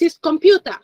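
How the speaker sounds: "computer" said as Japanese "konpyuta". Shown as a demonstration. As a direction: Japanese loanword pronunciation of "computer". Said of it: "And in Japanese".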